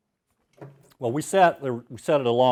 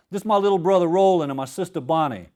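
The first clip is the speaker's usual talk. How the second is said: put-on Cajun accent; 5 semitones higher, 3 dB louder than usual. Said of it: "I get to do my Cajun accent".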